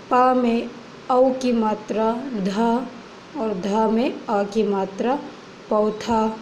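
teacher spelling पौधा aloud; sounding out words. Shown as a demonstration. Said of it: "spelling पौधा".

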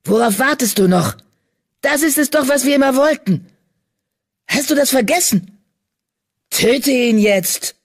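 half-brother shoving him toward murder; fierce urging. A narrator's reading. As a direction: drive him to kill. Villain pushing brother to kill.

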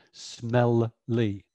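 "smelly" with both Ls said clearly; over-enunciated. Shown as a demonstration. Teacher modelling over-enunciation of "smelly". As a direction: split "smelly" into smel-ly. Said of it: "we over enunciate".

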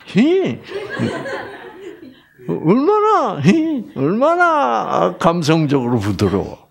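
high giggly tease; giggling mock sweetness. Preacher teasing the congregation about sweet Jeolla men, giggling.

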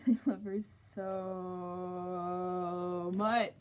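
muffled inside mascot head; speaking inside full mask; through a costume head. Real, not acted. Seen 5: Full costume head worn over face throughout labelled words.

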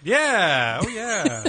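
booming, drawn-out catchphrase; Kool-Aid Man. Acted. Podcaster answers news of the coming show, Kool-Aid Man voice. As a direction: burst in with a big playful cheer. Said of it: "twenty percent Kool-Aid, man".

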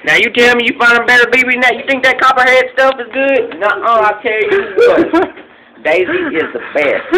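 excited bragging. Acted. Brags about Daisy.

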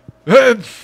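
high burst of laughter; loud laugh. Real, not acted. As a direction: laugh out at the joke.

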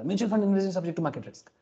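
mock ad disclaimer read; hammed-up mutual fund ad voice-over; imitating the fast disclaimer. Shown as a demonstration. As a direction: rattle off the legal disclaimer like an ad voice-over. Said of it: "ऐसे बोलता था".

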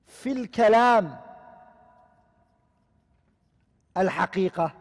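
slow, careful Arabic quotation; slow recitation. Shown as a demonstration. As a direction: recite each word slowly and deliberately. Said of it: "they say".

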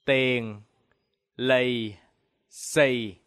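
"Tiền lì xì" spaced word by word with falling tones; Vietnamese pronunciation. Shown as a demonstration. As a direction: model "Tiền lì xì" slowly with low tones. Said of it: "Now repeat after me".

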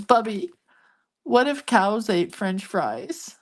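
slow imitation of a child wondering aloud; lightly voiced kid, drawn out, rising at the end; amused little grandson. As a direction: imitate a small boy posing a silly question. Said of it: "laughing through the whole thing".

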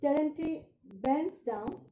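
reading Terenti bends down slowly, word by word; slow it down for the class; slow, careful reading aloud for students. Shown as a demonstration. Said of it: "slower reread".

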